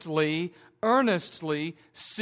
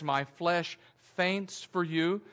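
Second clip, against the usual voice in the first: slow quoted verse; slower than usual. Shown as a demonstration. Quoting verse in sermon.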